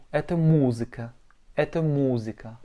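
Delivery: музыка stressed on the first syllable, у. Shown as a demonstration. Teacher modelling музыка for learners, stress on у. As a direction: hit the у in музыка. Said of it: "avec un accent tonique sur le U".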